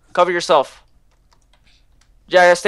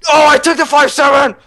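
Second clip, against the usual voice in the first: high, loud delighted exclaim; excited; 11 semitones higher, 5 dB louder than usual. Real, not acted. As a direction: burst out gleefully. Realizing own loot.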